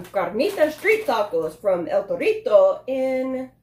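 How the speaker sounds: Spanish-accented food and place names. Real, not acted. Reviewer reading Spanish taco names to viewers, Spanish accent. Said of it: "I get the accent when I say things in Spanish".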